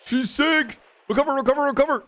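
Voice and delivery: high, loud hype shouting; excited yelling. Real, not acted. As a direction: cheer her on, shouting. Cheering the flying.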